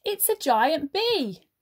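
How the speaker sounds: a touch of panic; frightened bear. Acted. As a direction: blurt it out while backing away. Bear flees in fear.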